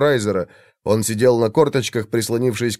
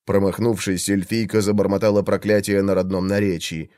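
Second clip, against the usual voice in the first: ordinary delivery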